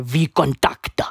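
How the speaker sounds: breathless whisper of the name V Contact. Real, not acted. Recalling the Russian site, whispered.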